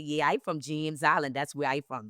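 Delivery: slipping into her home Gullah Geechee dialect; Gullah Geechee accent. Shown as a demonstration. Tells a mother she's from James Island, in Gullah Geechee accent. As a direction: put on the Gullah Geechee accent, proud and easy. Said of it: "So now I could put it on".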